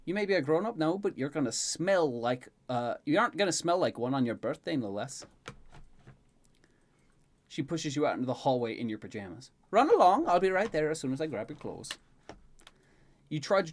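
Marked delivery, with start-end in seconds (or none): 0.1-5.3 lilting, playfully scolding character voice; teasing Elaine. Acted. Elaine sending Tyson to the bath, playfully scolding. 9.7-11.9 high, loud call, then settling; brisk Elaine. Acted. Elaine pushing him toward the bath, bossy. Voices Elaine giving orders.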